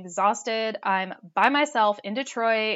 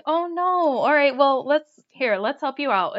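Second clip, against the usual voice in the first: bright, higher helper voice; eager to help, a bit higher; helpful girl; 4 semitones higher, 4 dB louder than usual. Retold or imitated. Girls offering help.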